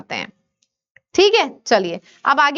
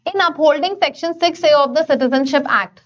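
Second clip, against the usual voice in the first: slow reading; much slower than usual. Shown as a demonstration. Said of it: "reads passage slowly".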